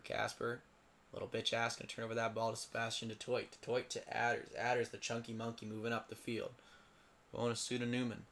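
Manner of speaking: murmured play-by-play commentary; casual commentary read under the breath. Acted. Play-by-play of the game.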